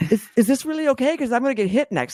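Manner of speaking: put-on high, timid little-kid voice; an old mare voiced as a nervous child asking her owner. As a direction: ask like a scared little kid who expects a smack. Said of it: "she was like a little kid".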